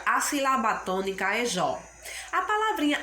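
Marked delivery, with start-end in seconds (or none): 1.4-1.8 jó said alone with a strong open ó; jó, the stressed syllable, given weight. Shown as a demonstration. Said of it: "a sílaba mais forte".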